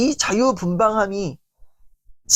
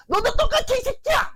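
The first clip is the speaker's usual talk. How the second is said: very high furious shout; yelling at child. Retold or imitated. Angry parent yelling at their child, furious shout. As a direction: scream it at the kid.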